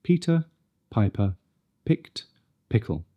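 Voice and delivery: "Peter, Piper, picked, pickle" with light aspirated p; not too much air on each p; crisp p words. Shown as a demonstration. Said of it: "Not too much air".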